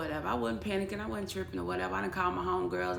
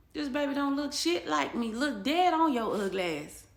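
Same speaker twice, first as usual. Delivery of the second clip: angry rant; 7 semitones higher, 7 dB louder, slower than usual. Retold or imitated. Furious thoughts at the father.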